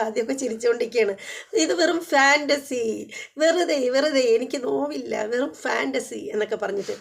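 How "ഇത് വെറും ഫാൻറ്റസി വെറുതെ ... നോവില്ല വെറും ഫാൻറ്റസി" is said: mock drunk dismissal. Drunk man laughing off bite.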